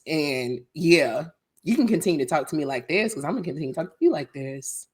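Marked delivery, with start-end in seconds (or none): 1.6-4.9 lightly put-on phone-call manner; mother's call voice. Answering someone who mimics her, mild call voice. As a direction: run it briskly in a mild call voice. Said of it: "I'll put on my mother's call voice".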